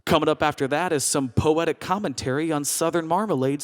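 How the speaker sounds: calm, even public-radio delivery; monotone radio newsreader. Retold or imitated. Radio host previewing a jam feature, unchanged monotone. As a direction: keep every item in the same monotone. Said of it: "delivered in the same monotone voice".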